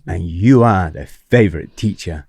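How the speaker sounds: put-on measured Hong Kong-accented praise; Miss Lynn. Head of English praising the teacher, Hong Kong accent. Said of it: "If I do the accent".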